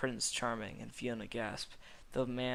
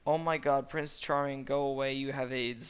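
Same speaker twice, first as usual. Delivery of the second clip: angry; 2 semitones higher, 5 dB louder than usual. Acted. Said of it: "said Fiona angrily".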